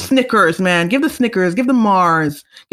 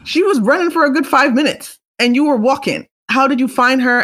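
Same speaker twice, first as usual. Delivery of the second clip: much higher, incredulous question; mock disbelief; 6 semitones higher than usual. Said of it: "then you're like".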